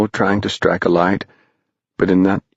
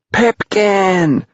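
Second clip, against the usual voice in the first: high, long-drawn shout of a name; 12 semitones higher, 3 dB louder than usual. A narrator's reading. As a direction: shout for a lost friend, pitched way up. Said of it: "everyone shouted".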